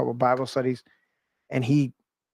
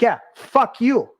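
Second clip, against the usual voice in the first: mock tough banter; 8 semitones higher, 4 dB louder, slower than usual. Friendly swearing banter at gate.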